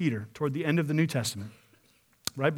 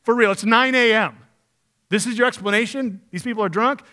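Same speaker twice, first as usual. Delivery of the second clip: mock-incredulous Peter; 5 semitones higher, 6 dB louder than usual. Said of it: "He's going".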